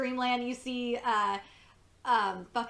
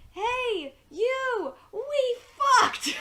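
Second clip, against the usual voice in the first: mock yell, pitched way up; yelled announcement; 13 semitones higher, 6 dB louder, much slower than usual. Cheryl announcing in Dreamland, mock yell. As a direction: announce it to the whole room, half-shouted. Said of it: "yells, or announces basically".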